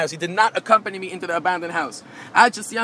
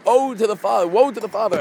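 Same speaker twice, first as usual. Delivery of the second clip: moaning lament; 3 dB louder than usual. Retold or imitated. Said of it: "what Hashem was moaning about".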